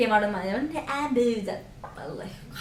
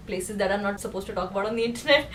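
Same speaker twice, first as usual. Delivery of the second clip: softer, quicker conspiratorial aside; hushed aside; 6 semitones lower, 8 dB quieter, faster than usual. Real, not acted. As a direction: drop your voice like sharing a secret. Hushed confession.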